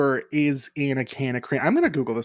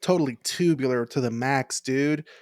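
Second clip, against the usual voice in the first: nineties skater dude. Retold or imitated. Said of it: "what are other nineties skateboard terms".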